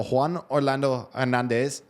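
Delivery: a show-off Spanish accent on Juan Orlando Hernandez, Juan as hwan; playful Spanish accent. Shown as a demonstration. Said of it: "that's my new Spanish, uh, accent".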